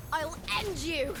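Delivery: combat threat. Acted. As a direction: drag out the threat, pitched high.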